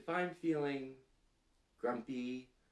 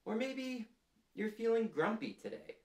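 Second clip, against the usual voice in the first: grumpy voice; 11 semitones higher than usual. Shown as a demonstration. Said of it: "make a grumpy face".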